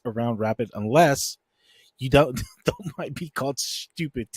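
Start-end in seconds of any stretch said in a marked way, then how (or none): 3.6-4.3 "stupid" with a drawn-out hiss; long sibilant into the word; extended S. Retold or imitated. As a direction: hold the S of "stupid" playfully. Repeating the learned stretched word.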